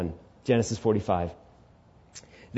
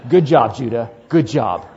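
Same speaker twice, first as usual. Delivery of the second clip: sarcastic; 2 semitones lower, 6 dB louder than usual. Acted. Brothers sarcastically blaming Judah.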